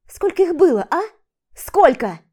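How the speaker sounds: high, loud demand; demanding shout. Acted. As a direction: force the truth out. She demands answer. (громкое требование)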